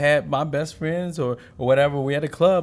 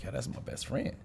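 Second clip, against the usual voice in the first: offhand claim; 13 dB quieter than usual. Retold or imitated. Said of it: "everybody like".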